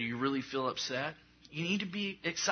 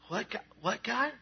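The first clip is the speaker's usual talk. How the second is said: higher, puzzled mock call to God; confused asking; 8 semitones higher than usual. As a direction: squint and ask higher, confused. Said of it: "you're like".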